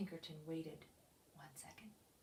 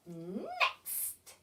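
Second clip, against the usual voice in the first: crowing. Acted. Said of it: "she crowed".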